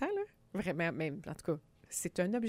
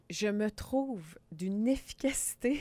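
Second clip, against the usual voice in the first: whisper; slower than usual. Real, not acted. Proud joke about her meal prep.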